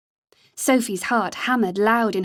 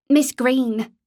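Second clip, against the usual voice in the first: put-on a light Derbyshire accent on "Miss Green"; hint of Derbyshire accent, careful; slight Derbyshire burr; 4 semitones higher, 4 dB louder than usual. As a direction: pass herself off with a touch of Derbyshire accent. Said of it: "giving the words a slight Derbyshire burr".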